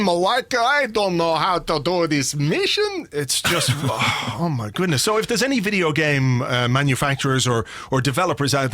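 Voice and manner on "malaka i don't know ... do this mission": higher, slow, hammed-up foreign accent; lightly mocking Greek-accented English. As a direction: parody of game dialogue. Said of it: "they throw in the odd "Malaka".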